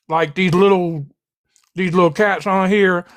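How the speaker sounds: talking with ice in mouth; speaking around a mouthful of ice; mouth full. Real, not acted. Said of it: "can you swallow your food? That eating and talking".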